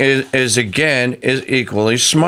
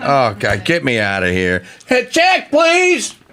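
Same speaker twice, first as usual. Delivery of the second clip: fed-up sing-song with swooping pitch, totally done. Imagining what an actress in an ad is thinking: imitating Sydney Sweeney. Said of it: "She's going like".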